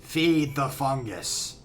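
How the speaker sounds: monotone voice. Retold or imitated. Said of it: "monotone voice type thing".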